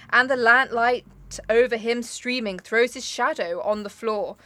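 slow, measured recitation, ending drawn out; solemn poem reading. Acted. Reading the last verse of The Raven to her co-host, slow and solemn. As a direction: read the final verse gravely.

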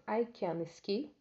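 each word laid out slowly; slow model sentence. Shown as a demonstration. Teacher modeling an English sentence for students, slow and clear. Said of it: "e aí tá escrito assim".

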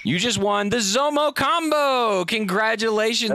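host announcing the caller's prize, game-show style; prize announcement. Real, not acted.

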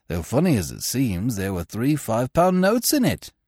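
a plain country man telling the gentlemen; villager voice. Acted. Villager reports finding Smith.

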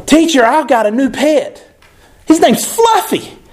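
a hint of an eager schoolgirl telling teacher; little girl Lucy. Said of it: "a little girl named Lucy".

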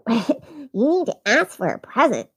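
a hint of a bossy sister; lightly voiced know-it-all kid; mildly bossy child voice. Sister scolding in character.

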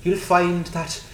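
deliberately bad mock accent, pitched high; Harry Mudd. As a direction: ham up a badly faked accent, drawn out. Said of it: "I deliberately did it bad".

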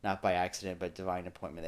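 softly imitating a preacher; a hint of a warm welcome. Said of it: "the preacher gets up and says".

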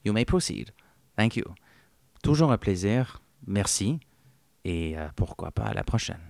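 lightly voiced genteel English author, unhurried; a hint of a polite old British gentleman plugging the show; Ian Fleming. Ian Fleming praising the podcast hosts to listeners, in a lightly voiced genteel British manner. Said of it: "Et vous, Monsieur Fleming?".

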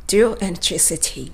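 dual entry C T slowly, lips pouted; ゆっくりdual entry C T; slow demo pronunciation. Shown as a demonstration. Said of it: "前歯をむきっと出して".

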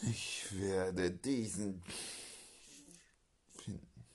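slow, soft unvoiced whisper. Agent quietly vows to find the bomber, slow whisper. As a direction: breathe it slowly, a secret vow.

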